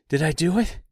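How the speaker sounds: breathless, high-pitched disbelief; astonished. A narrator's reading. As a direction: ask it high, amazed at yourself. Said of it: "he asked in complete astonishment".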